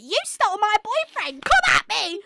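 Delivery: high, bratty diva taunting. Acted. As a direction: play a bratty little diva. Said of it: "Glinda there being a little diva".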